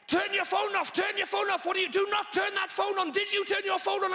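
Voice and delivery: mock scream. Logistics girl screaming at a comedian about his phone. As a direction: yell at him like a drill sergeant. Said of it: "she screamed at me".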